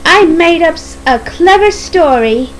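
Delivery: high, self-satisfied character voice; chuckling to herself. Acted. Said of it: "she chuckled to herself".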